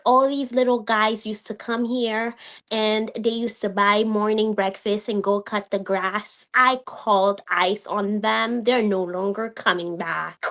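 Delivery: slow, measured mock boast; imitated smug threat. Retelling the woman's hostile boast.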